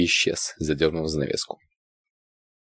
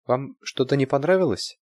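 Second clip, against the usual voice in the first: timid; 8 semitones higher than usual. A narrator's reading. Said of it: "робко спросила девушка".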